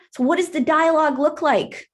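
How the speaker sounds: normal talking voice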